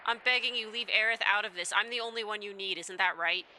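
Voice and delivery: acted, mildly desperate plea; earnest begging, lightly acted; pleading. Voices the father pleading with captor.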